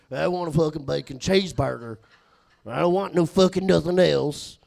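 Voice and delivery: slurred redneck ordering; Jacob's redneck drawl. Retold or imitated. Coworker stating his burger order, emphatic redneck drawl. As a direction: order in a thick redneck juggalo accent. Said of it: "Do one more Jacob one".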